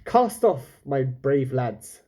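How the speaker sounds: rally the crew grandly; captain's cry. Acted. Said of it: "cried Rambashi".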